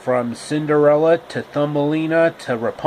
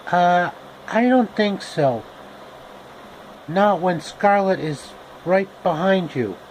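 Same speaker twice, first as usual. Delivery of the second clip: put-on higher girlish brush-off; Dorothy voice; 4 semitones higher than usual. Dorothy refusing Rhett because Scarlett is behind him, higher and girlish. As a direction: wave him off politely.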